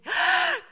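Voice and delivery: sharp, high gasp of alarm; mock shocked gasp. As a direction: gasp as if just caught out. Mock shock as kids realize. (깜짝 놀라 숨을 헉 들이켜는 소리)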